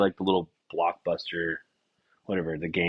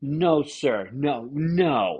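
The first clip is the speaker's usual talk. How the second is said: scolding a pet; 6 semitones higher, much slower than usual. Retold or imitated. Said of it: "they'll talk to it like it's a fucking cat".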